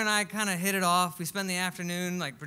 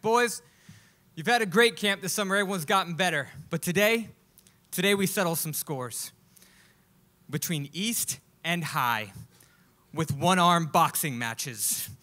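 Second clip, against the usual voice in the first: trainer announcing; 3 dB louder than usual. Retold or imitated.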